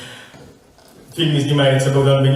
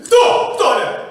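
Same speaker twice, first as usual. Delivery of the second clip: high, loud eager call; shouted question; 3 dB louder than usual. Acted. Husband eagerly shouting to his wife, high and loud. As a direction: yell up to the window, eager.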